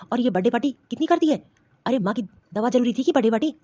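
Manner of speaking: husband scolds his wife about his mother's medicine, angry; angry scolding. Acted. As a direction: tear into her for wasting the money. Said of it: "और इतना क्यों चिल्ला रहे हैं?".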